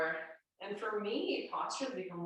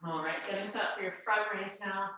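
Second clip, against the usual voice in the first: stuffy nose, nasal tone; nasal congested voice. Real, not acted. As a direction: talk through a blocked nose. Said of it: "the nasally voice".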